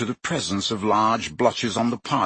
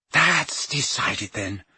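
brisk; 3 semitones higher, slower than usual. Acted. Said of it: "said Hermione briskly".

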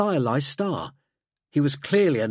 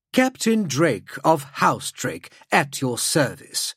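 formal introduction; slower than usual. Acted. Drake bows and introduces himself.

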